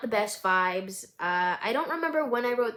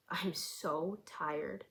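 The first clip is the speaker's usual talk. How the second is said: slow, soft breathy whisper; exhausted whisper; 3 semitones lower, 10 dB quieter, much slower than usual. Acted. Driver admitting exhaustion to herself, whispered. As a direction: let it escape like the last bit of energy. Numb narrator after crash.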